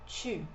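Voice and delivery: tu as "tchü", lips pushed forward; tu with a fronted rounded vowel; puckered French U. Shown as a demonstration. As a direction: pucker tightly on tu. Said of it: "é diferente da pronúncia do vous".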